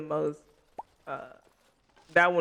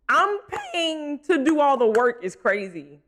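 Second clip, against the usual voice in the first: laughing through the words, slowed; giggling disbelief at having to pay; 6 semitones higher, 3 dB louder than usual. Real, not acted. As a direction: talk while cracking up. Laughing at game cost.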